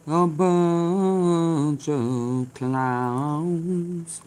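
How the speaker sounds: slow, mock-defiant declaration; hammed-up tough-guy defiance, drawn out; false bravado. Trying to threaten old Candace.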